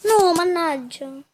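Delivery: loud, slow frustrated curse; explosive italian cursing. Real, not acted. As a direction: drag out the angry groan. Missed shot, repeated curse.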